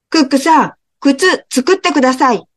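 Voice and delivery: a tiny mouse begging politely; small mouse. Acted. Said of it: "ネズミが言いました". (高い声でお願いする小さなネズミ)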